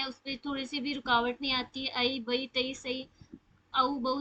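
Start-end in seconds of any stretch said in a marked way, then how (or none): 1.9-4.2 ائی بئی تئی سئی او بو said short and fast with no hold; clipped leen syllables; quick leen sounds. Shown as a demonstration. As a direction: glide each ائی and او quickly, no stretch. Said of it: "اسے فوراً سے پڑھتے ہیں".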